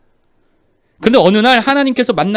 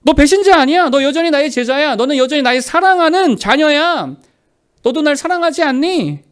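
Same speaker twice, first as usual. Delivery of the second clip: lightly acted insistent affirmation, pitched higher; high, emphatic reassurance in a preacher's voice; Jesus; 5 semitones higher, 4 dB louder than usual. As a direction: affirm them firmly, voice raised in pitch. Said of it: "예수님 뭐라고 말씀해 주셨죠".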